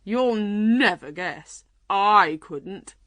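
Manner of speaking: slow, teasing exclamation; a mild crow, drawn out; excited unicorn cry. A narrator's reading. Unicorn daring the lion to guess, crying out. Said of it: "the unicorn cried".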